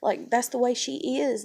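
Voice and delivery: imitating the cousin making excuses. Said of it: "And she's like".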